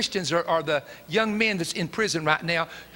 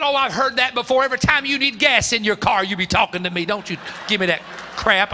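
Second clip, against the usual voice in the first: scornful scolding; 5 dB louder than usual. Retold or imitated. Father scolding son.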